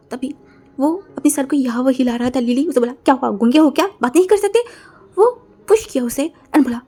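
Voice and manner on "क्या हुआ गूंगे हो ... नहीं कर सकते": taunting. Acted. Taunting the silent stranger.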